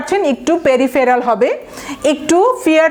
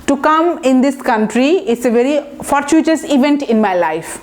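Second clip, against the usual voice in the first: slow example sentence; much slower than usual. Shown as a demonstration. Teacher models example sentence slowly.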